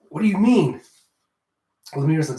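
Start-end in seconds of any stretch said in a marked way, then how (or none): 0.1-0.8 high, louder bewildered question; confused girl asking; confused higher voice. Acted. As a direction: ask it truly baffled.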